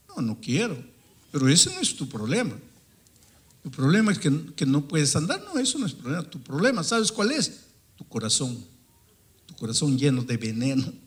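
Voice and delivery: retold stern rebuke, emphatic; impatient confrontation. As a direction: confront him firmly, with jumps in pitch. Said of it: "ahí estaba hablando de esa manera". (reproche firme e impaciente)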